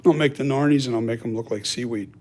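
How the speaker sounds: talking through hiccups; hiccuping between words. Real, not acted. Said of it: "Excuse me, I got the hiccups".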